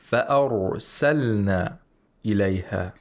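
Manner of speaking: thick ra in "فَأَرْسَلْنَا", held without a bounce; correct tajweed. Shown as a demonstration. Reciter demonstrates the sheikh's reading of ra, thick and flowing. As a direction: let the r in "فَأَرْسَلْنَا" flow into the s. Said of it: "ra should be pronounced without qalqala".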